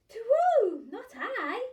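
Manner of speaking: high hooting owl voice. Acted. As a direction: hoot it like an owl. Owl answers the child.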